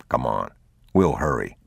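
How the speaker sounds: low, steady fatherly voice; calm urging. A narrator's reading. Man leading his son before dark, low calm urging. Father reassuring worried boy.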